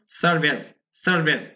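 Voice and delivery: সার্ভিস as "sar-bes", short second vowel; model pronunciation. Shown as a demonstration. Teacher asking learners to notice, model pronunciation. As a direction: say সার্ভিস crisply with an e in the last syllable. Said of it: "উচ্চারণ করে খেয়াল করুন".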